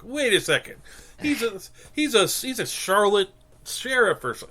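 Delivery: high, startled double-take; mock surprise. Viewer realizing the sheriff is Australian, surprised. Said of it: "You're like".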